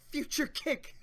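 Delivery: high, loud battle cry; attack shout. Acted. Nami kicking Usopp with a loud named attack. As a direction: yell the move name full force.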